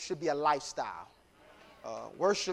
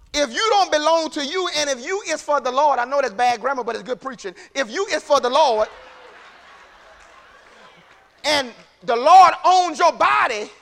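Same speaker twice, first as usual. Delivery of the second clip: impassioned preaching; 8 semitones higher, 9 dB louder than usual. Real, not acted. Preaches at full force.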